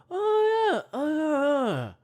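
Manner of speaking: high, loud hooting ape cries; monkey hoots. Retold or imitated. Other monkeys answering with high hoots. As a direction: hoot like an excited monkey. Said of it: "the other monkeys get it and they go".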